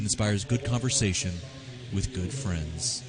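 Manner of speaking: smooth radio ad voice; soothing voice. Acted. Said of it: "That was a very soothing sponsor call".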